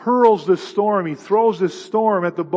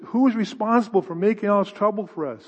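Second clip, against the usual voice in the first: demanding sailors; 3 semitones higher, 4 dB louder than usual. Acted. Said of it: "and they says".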